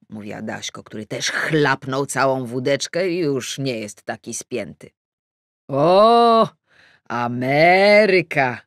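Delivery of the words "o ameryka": delighted, drawn-out Ameryka; a man lighting up at the thought of America; lightly voiced glad old-timer; pleased exclamation. A narrator's reading. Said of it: "ucieszył się pan Okrąglutki".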